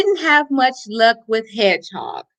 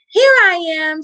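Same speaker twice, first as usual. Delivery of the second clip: higher, louder little call back; shout; 6 semitones higher, 3 dB louder than usual. Acted. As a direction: answer the searchers with a higher call. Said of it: "shouted Baby Deer".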